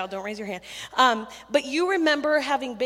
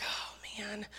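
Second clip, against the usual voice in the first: muted dismay; 12 dB quieter than usual. Retold or imitated. Camp leader spots Clavy in line, muted dismay. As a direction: mutter it quietly to yourself.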